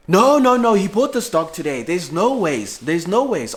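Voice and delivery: high, loud flustered denial; the family insists he bought it; family protesting. Retold or imitated. Family voiced, denying loudly.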